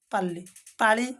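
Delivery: ପାଲି with dental ଲ, then ପାଳି with retroflex ଳ; teacher's minimal pair. Shown as a demonstration. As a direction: contrast ପାଲି and ପାଳି clearly. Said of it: "ବର୍ଣ୍ଣ ଦୁଇଟି ମଧ୍ୟ ଭିନ୍ନ".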